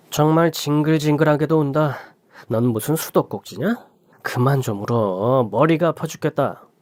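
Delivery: a touch of scorn, lightly voiced; contemptuous husband. Husband sneering at his wailing wife, mildly contemptuous. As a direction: sneer at her crying.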